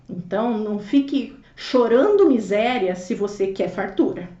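slow emphatic maxim. Shown as a demonstration. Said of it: "a Érica sempre anota essas frases".

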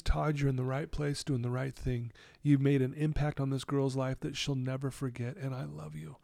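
soft, gentle words from a voice in his head; tender inner voice. Retold or imitated. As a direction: let it sound like loving reassurance, hushed. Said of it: "I hear this voice in my head".

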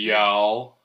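"Y'all" stretched out southern-style; southern long vowel. Shown as a demonstration. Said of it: "down south, the A's are pronounced like three A's".

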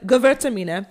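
Gewürztraminer in a mock German accent. Repeating the wine's name for uncultured listeners, German accent. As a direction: lightly put on a German accent. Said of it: "that's my German accent".

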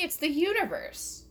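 high, emphatic exclamation; incredulous. Acted. Comic arguing the obvious to listeners, incredulous. Incredulous riff, then repeats it softly.

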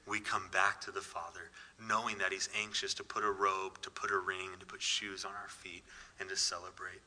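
soft, near-whispered promise; hushed and tender. Real, not acted. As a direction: drop to a breathy hush as if sharing good news. Tender promise of the father's welcome.

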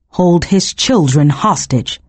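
ordinary delivery

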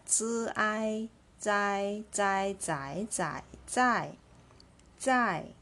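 "Zi" and "zai" sounded out in careful, drawn syllables; pronunciation demo. Shown as a demonstration. Teacher leads class in pronouncing the word, careful pronunciation demo. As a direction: repeat "zai" as a model for learners. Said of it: "let's pronounce this word together".

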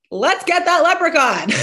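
high, loud rallying cry; acted excited cheer. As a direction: playfully whoop the kids into action. Mom acts out her cheering reply.

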